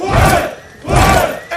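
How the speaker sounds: high, full-force mass cheer; crowd roar. Acted. Maroons answer the call to arms, roaring. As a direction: roar back as one.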